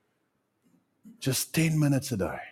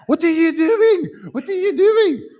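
shrill falsetto wail, much higher and louder; mock panicked cry; 7 dB louder, slower than usual. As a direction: ham up the horrified tree worshipper. Mocking tree worshippers at chainsaw.

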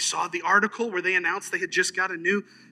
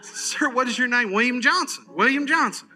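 loud, hammed-up Southern impression; thick Southern accent; 8 semitones higher, 7 dB louder than usual. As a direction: exaggerate a thick Southern accent, names slurred together. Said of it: "in a thick Southern accent".

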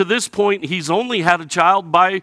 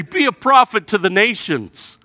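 accusing; 5 semitones higher than usual. Retold or imitated. Jeremiah to God, a raised bitter accusation. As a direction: throw the blame at God.

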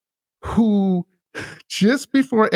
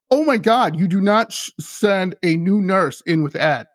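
higher-pitched retold alarm, easing by the end; alarmed warning; 3 semitones higher than usual. Head nurse warning her staff, alarmed. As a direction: urgently forbid it, quoting a worried nurse.

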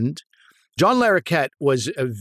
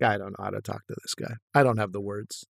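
intimidated mumble; 6 semitones lower, 9 dB quieter than usual. Retold or imitated. Intimidated by a huge co-star.

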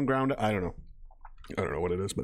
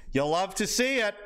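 lightly imitated catchphrase, pitched up; playful impression, higher voice; Nick Fuentes impression; 6 semitones higher than usual. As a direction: lift the pitch for the streamer's line. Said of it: "I'm gonna do a Nick Fuentes".

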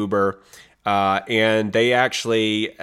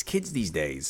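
put-on mumbled old grump; 6 semitones lower, 9 dB quieter, slower than usual. Grumbling about the muddy teens.

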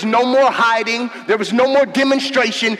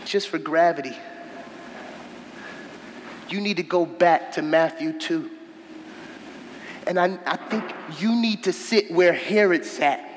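low, softer, grave preaching; solemn quiet; 6 semitones lower, 6 dB quieter than usual. Acted.

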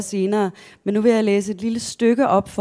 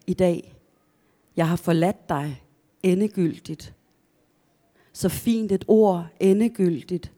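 measured story narration with deliberate pauses; literary reading. Acted. Author reading their own account to listeners, measured narration. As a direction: read the passage aloud, phrase by phrase. Author reads a passage aloud.

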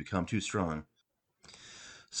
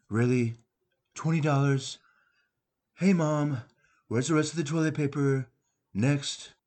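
scornful bratty sneer; mock the cheap gift; sarcastic; 4 semitones higher than usual. Spoiled kid mocking gifts.

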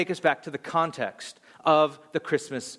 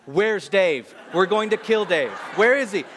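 raised, punchy voice of an angry crowd; mock angry demand; 4 dB louder than usual. Youth group looks for Dave after the announcement, angry. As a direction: imitate outraged teens hunting someone down.

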